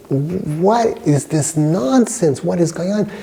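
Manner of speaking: slow, high-pitched acted outrage; angry disbelief. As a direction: imitate an appalled father demanding answers. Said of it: "he's very angry".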